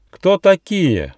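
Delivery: high, slow, menacing fairy; slow threatening question from the fairy queen; stern demand. A narrator's reading. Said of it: "грозно спросила фея Монтре".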